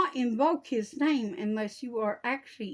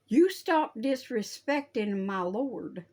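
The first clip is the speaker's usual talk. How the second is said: stern scolding; 2 semitones higher, 4 dB louder than usual. Real, not acted. Scolding those who curse.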